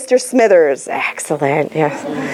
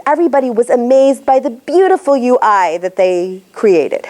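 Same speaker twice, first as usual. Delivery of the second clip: "beautiful" jumps off the line; stress on beautiful. Shown as a demonstration. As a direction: punch the word "beautiful". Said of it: "Beautiful jumps off".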